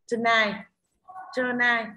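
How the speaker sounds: "Tonight" with the second syllable stressed; light first syllable in "Tonight", stressed "night". Shown as a demonstration. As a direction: say "Tonight" as a model word, weight on "night". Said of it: "trọng âm rơi vào tiết thứ hai".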